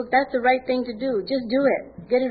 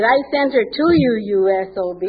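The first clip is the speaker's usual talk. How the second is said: angry scolding; 6 dB louder than usual. Retold or imitated. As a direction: bark it at her like the angry sponsor. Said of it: "she didn't say it really nice".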